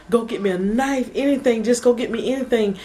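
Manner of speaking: high, urgent reenacted plea; retold tearful urgency. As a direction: replay a frantic demand for help. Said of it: "I'm crying at this point".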